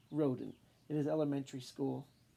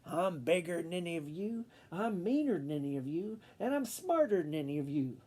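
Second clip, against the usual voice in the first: bossy announcement. Acted. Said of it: "barged into the classroom and announced".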